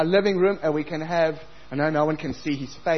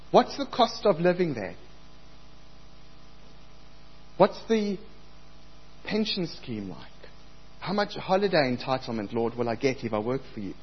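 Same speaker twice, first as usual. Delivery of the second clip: mock bargaining. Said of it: "we like to ask the Lord".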